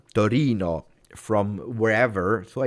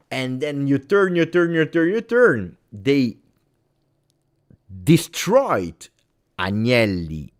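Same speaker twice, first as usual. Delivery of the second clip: higher and louder on every repeated turn, rising to a near shout; building heated rant; 6 semitones higher, 7 dB louder than usual. Real, not acted. Angry fan ranting about the clubs, building to a loud high outburst. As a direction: keep turning it up until it bursts.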